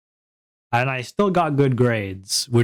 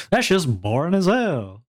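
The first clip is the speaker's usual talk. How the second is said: higher mock complaint as a fed-up viewer; bored viewers; 5 semitones higher than usual. Streamer as the viewers' proxy, hammed-up complaint. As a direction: play up the audience's boredom. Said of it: "I'm being your proxy right now".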